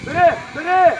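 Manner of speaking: carrying sideline shouts; urgent shouting. Real, not acted. Urging a player to take the ball, insistent shouting. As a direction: shout commands out across the pitch.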